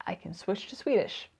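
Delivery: whispered aside. Real, not acted. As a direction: drop to a conspiratorial whisper.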